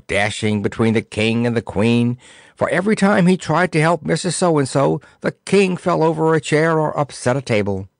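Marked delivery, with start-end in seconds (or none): none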